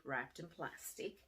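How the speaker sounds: hushed repeat. Shown as a demonstration. Teacher building suspense over the gift, hushed and slow. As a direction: drop into a hushed, suspenseful echo.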